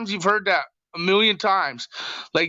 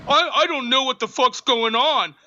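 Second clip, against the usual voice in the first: mocking whiny voice; 4 semitones higher than usual. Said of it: "quit acting like you're fucking".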